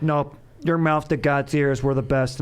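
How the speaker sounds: put-on Boston fan voice, thick Boston accent. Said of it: "doing the same Boston accent".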